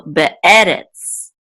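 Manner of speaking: "be'eretz" slowly, be then eretz; sounded-out word. Shown as a demonstration. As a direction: stress the "e" after the break in "be'eretz". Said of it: "So be'eh".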